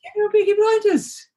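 very high-pitched playful put-on voice; mock Peaky Blinders audition. Mimics a suggested part in the show.

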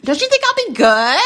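squeaky high cartoon character voice. Shown as a demonstration. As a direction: pitch way up like a cartoon. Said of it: "I can play a voice of a cartoon".

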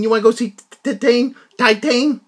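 lightly voiced slack-jawed American; a hint of a dopey American guy. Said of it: "it sounded like a, a dopey American".

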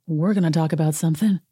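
composed retelling, at an even pitch; calm. Retold or imitated. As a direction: state it calmly, as someone unbothered. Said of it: "Sutton says calmly, per usual".

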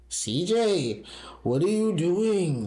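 high, slow grandma calling. Shown as a demonstration. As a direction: call out like a grandma. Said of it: "What's your best grandma impersonation?".

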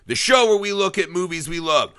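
big drawn-out show-opening announcement; showy podcast announcer. Acted. Host greeting listeners to the film podcast, showy announcer. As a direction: stretch out the welcome like a show host.

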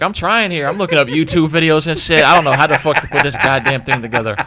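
worked-up retelling of frustration; retold exasperation. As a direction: protest that you really are trying. Retold exasperation to stressed girlfriend.

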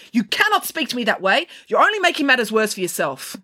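high-pitched, scolding yell; yelling after him. Acted. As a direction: reprimand a pupil storming off. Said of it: "She yelled after him".

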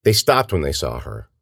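plain reading voice

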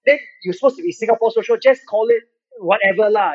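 mock a rude troll in Singlish with a Singaporean accent. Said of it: "they're like".

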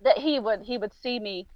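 softly spoken, holding back tears; a little emotional. Real, not acted. Recalling grandfather's promise to watch over her, a little emotional. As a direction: keep it quiet, trying not to cry. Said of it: "get a little emotional every now and then".

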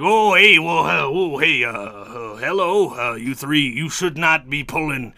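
a lightly voiced pirate, stammering; flustered pirate. A hint of a flustered pirate scolding the three for the stolen ship. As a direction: fumble the hello, then scold.

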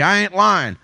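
Biden impression. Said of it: "when he tells you".

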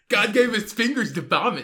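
put-on sorority girl dishing out advice. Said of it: "There's a good sorority girl impression there".

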